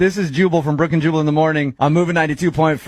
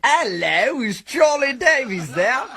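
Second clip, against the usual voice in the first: mock manager voice; 9 semitones higher, slower than usual. Pretends to be his manager.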